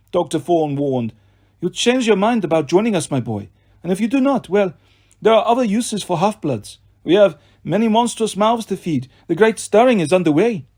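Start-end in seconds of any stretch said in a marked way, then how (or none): 1.6-10.7 menacing villain voice. Acted. Villain Doctor Fawn speaks.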